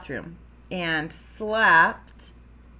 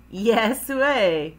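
louder, emphatic answer; firm comeback; 2 semitones higher, 6 dB louder than usual. Acted. Mom overrules Froggy's refusal, firm. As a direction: counter the child's refusal firmly.

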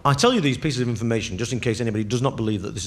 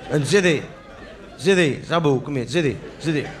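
put-on raised drunken calls of Zidhi; drunk calling the waiter; 3 semitones higher than usual. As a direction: call the waiter over, drunk. Drunk orders curry in cafe.

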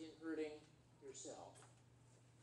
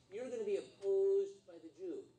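emphatic warning; 3 semitones higher, 7 dB louder than usual. Acted. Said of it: "as it says in these next verses".

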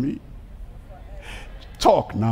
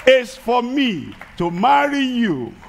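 bold proposal; 5 semitones higher than usual. Retold or imitated. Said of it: "I came along and I said".

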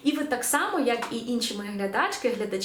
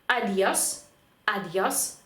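«адіос» modelled as a-DYOS; marked-accent stress; 2 semitones lower, much slower than usual. Shown as a demonstration. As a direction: stress the last syllable of «адіос». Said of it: "поставити наголос там, де він стоїть".

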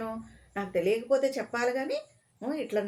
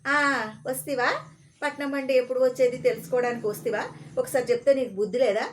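loud scolding; 3 semitones higher, 3 dB louder than usual. Acted. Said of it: "గట్టిగా అరిచేశాడనమాట".

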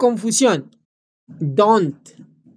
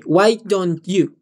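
slow model; slower than usual. Shown as a demonstration. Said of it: "With me".

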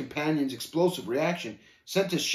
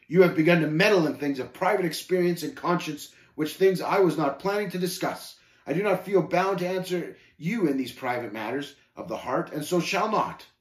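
mildly haughty, measured rebuff; a touch of lofty offence; 2 semitones higher than usual. Acted. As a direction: stand on your dignity and refuse to answer. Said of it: "answered haughtily".

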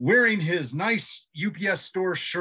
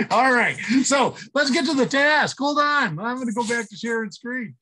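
excited; 8 semitones higher, 5 dB louder than usual. Real, not acted. Excited with dog on lap.

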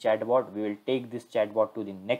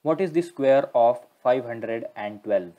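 slow, louder question for the machine; slow clear command; 2 semitones higher, 6 dB louder than usual. Real, not acted. Quizzing the chatbot on maths, slow and loud. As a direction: say each number slowly so it's recognized.

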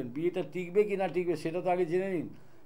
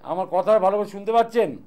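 raised voice for caller; 3 semitones higher, 8 dB louder than usual. Real, not acted. Phone caller can't hear well.

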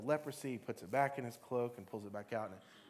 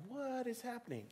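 amazed; 11 semitones higher, 3 dB quieter than usual. Acted. Moses amazed at burning bush.

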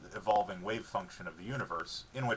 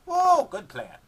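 loud, high dog voice, thrilled; excited dog; 10 semitones higher, 12 dB louder, much slower than usual. A narrator's reading. Dog hearing about a walk, thrilled dog voice. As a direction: cheer for the walk.

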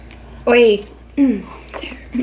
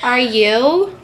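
American accent. Shown as a demonstration. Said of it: "Just go, like".

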